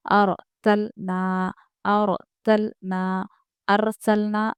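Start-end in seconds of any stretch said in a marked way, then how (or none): 0.1-3.3 slow recitation of और तलना with a full, heavy ra. Shown as a demonstration. Teacher reciting for viewers, slow with a full heavy ra. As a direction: draw out और तलना, ra said thick and full. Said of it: "हमको यहाँ पर रॉ को पुर करके पढ़ना है".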